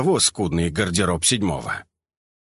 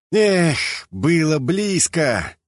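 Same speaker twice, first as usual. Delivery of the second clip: high, drawn-out relieved sigh; upbeat exhale of relief; 7 semitones higher, much slower than usual. A narrator's reading. Brother just released from a chokehold, cheerful relief. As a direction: breathe out, still in good spirits. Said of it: "выдохнул парень".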